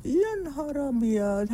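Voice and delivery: slow, drawn-out pleased gasp; mock delight. Wife flattered by the compliment, slow delighted gasp. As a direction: melt a little at the compliment, slowly. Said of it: "انت شكلك حلو قوي".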